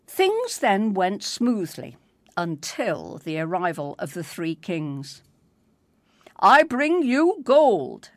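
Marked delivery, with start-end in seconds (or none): 6.4-8.1 slow, louder, higher recital; a small boy saying his nativity line; child king reciting. Acted. First king presenting gold to Mary, child recital. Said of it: "said the first child".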